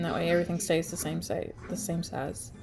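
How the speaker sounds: stuffed-up nose, words tangling; blocked nose. Real, not acted. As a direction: talk through congestion. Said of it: "I'm so congested".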